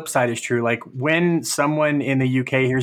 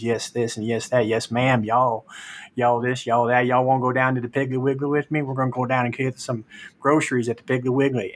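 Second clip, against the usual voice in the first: imitating your own Southern-accented chatter. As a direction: slip into a folksy Southern accent. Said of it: "occasionally I can go into a Southern accent".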